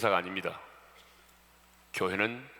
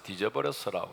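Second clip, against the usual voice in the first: mock Jeolla dialect. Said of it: "전라도에서는".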